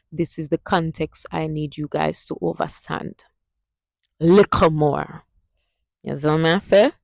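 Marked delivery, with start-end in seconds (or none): 4.2-5.2 "Little more" slow, T's as K, "likka more"; "likka more" slowly. Shown as a demonstration. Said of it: "the two T's are a K".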